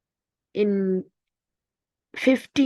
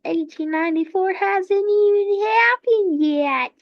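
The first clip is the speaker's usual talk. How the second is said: high, louder protest in play; mock incredulous objection; 8 semitones higher, 5 dB louder than usual. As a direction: object as the baffled crowd. Everyone objects to France's boast.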